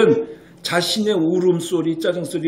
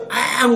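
imitated baby cry; 6 semitones higher, much slower than usual. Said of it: "울음이에요".

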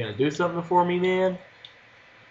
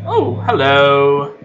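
drawn-out loud greeting; slow startled hello; surprised hello; 2 semitones lower, 6 dB louder, much slower than usual. Real, not acted. Player startled by a stranger at the door, drawn out.

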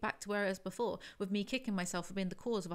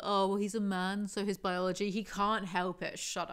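mock excuse. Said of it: "Are you really going down the".

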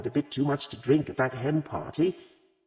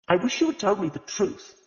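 higher, stern reproach; severe; 8 semitones higher than usual. A narrator's reading. Agatha reproaches the vicar's wife, severely. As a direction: scold her firmly for lying. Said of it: "she said severely".

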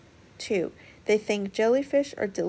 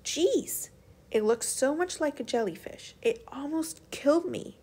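grumbling; 6 semitones higher than usual. Acted. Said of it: "Elena grumbled".

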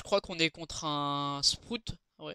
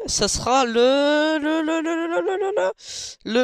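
« le, le, le » de plus en plus haut, étiré lentement; roulement de tambour; 11 semitones higher, 8 dB louder, slower than usual. Pretend. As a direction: faire monter le suspense avant le nom. Fait durer l'annonce du brawler. (suspense en montant, comme un roulement de tambour)

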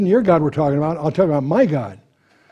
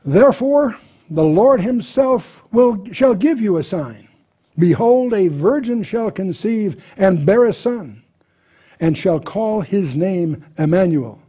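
raised, proclaiming Bible reading voice; scripture reading; 4 semitones higher, slower than usual. Acted. Teacher reads Isaiah aloud to the class, raised proclaiming voice. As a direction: read it out like the prophet speaking.

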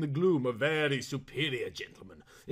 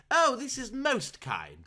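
character voice; 8 semitones higher, slower than usual. A narrator's reading. Saltiner voiced, high and slow.

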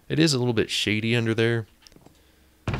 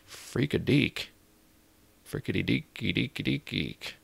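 nervous babble; 4 semitones higher, 4 dB quieter than usual. Real, not acted.

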